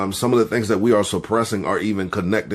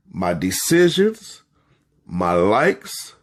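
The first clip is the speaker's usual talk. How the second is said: slow repeat-after-me; slower than usual. Shown as a demonstration. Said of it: "Let's do that one again, 'cause I kept talking".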